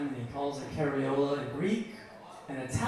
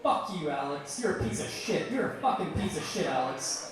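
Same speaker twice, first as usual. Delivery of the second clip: mildly indignant, higher-pitched telling-off; berating friend; 3 semitones higher than usual. Retold or imitated. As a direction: imitate a friend laying into someone. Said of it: "her friend started berating me".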